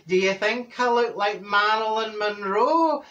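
Dorothy preening. Retold or imitated.

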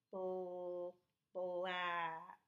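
Bl- held apart, then black; sounding out. Shown as a demonstration. Teacher sounding out the word for pupils. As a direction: break black into bl and ack. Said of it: "Sound it out".

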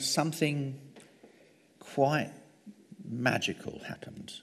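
drops to a whisper on the magic; hushed whisper. Acted. Hushed awe at screen magic.

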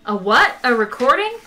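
loud incredulous question; can't believe it's a recording; surprised. Acted. Zaphod startled by the recording, loud disbelief.

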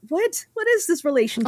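high incredulous question. Retold or imitated. Reacting to the parents' marriage, high incredulous. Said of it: "I'm like".

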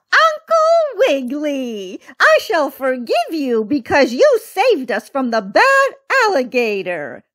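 high, squeaky forgiving teacher; Miss Mouse. A narrator's reading. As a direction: gush with relief as the rescued mouse. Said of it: "said Miss Mouse".

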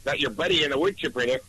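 put-on joking Minnesota accent; lightly twangy Minnesota voice. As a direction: echo the Fargo-style Minnesota twang. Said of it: "it's a funny accent".

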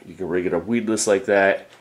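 usual speaking voice

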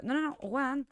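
real frustrated cry; exasperated no. Real, not acted. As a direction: stop him, loudly. Streamer protests at game character.

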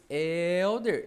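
"Elder" with a long, loud first "El"; stressed penultimate syllable. Shown as a demonstration. Teacher demonstrates with own name, stressed first syllable. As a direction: punch and hold the "El" in "Elder". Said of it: "cuja sílaba tônica se encontra na penúltima".

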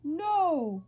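high, loud mock "No!"; mimicked scream. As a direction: copy the little scream, hammed-up. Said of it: "and then he screams".

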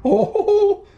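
high laughing burst. Real, not acted. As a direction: laugh through the words. Laughs after taking hot bite.

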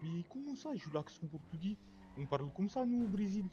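Portuguese-sounding French; Portuguese accent. Acted. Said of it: "tu as trop l'accent portugais".

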